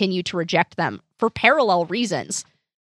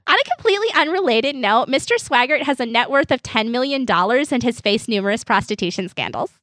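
customer service voice; 3 semitones higher than usual. Acted. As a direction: sound like a cheerful support agent. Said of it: "you slip into customer service voice".

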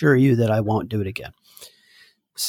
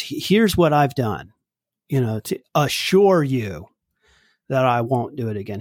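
deliberate assurance. Acted. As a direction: assure them deliberately, drawing out the opening. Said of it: "more than just me saying".

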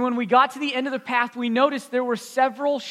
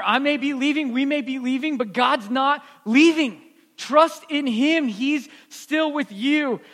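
reassuring. Retold or imitated. Reassuring a scared boy goodbye.

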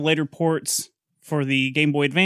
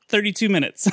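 amazed; 4 semitones higher, faster than usual. Real, not acted. Amazed at speedrun time.

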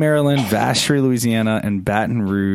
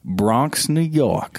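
playful hint of a Bronx accent; New York accent; 4 semitones higher, much slower than usual. Host reading out listeners' cities, light New York accent. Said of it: "what's that accent like".

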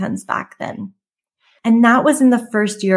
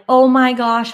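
freaking out; 3 semitones higher, slower than usual. Retold or imitated. Driving home overwhelmed by the new prices, mildly panicked. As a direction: blurt it in a rush of retold panic. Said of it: "like, freaking out".

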